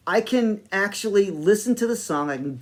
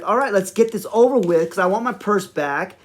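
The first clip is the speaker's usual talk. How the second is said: impatient, higher-pitched imitation with attitude; 4 semitones higher, 3 dB louder than usual. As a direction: play her wanting it over with. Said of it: "getting this attitude like".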